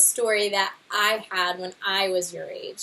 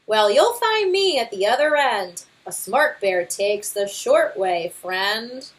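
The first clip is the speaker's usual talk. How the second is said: louder, blustering know-it-all father bear; boastful Papa Bear; 5 dB louder than usual. Acted. Father bear brushing off the scouts' guidebook, boastful. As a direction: scoff at the book with bravado.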